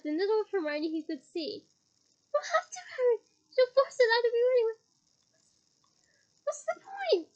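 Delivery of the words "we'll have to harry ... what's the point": high, loud near-tearful pleading; loud high tearful plea; desperate plea. A narrator's reading. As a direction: beg as if breaking down. Hermione's fake desperate plea.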